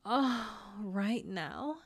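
slow, lingering repeat; drawn out. Acted. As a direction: stretch oh, right now out slowly.

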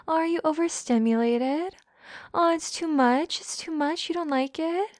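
mock sympathy. Dominant teasing an overwhelmed partner, mock sympathy. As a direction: feign pity with rising pitch.

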